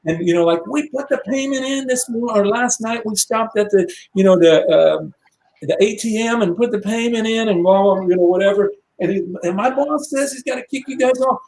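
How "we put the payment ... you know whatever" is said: indignant protest. Retold or imitated. Band protesting payment was made.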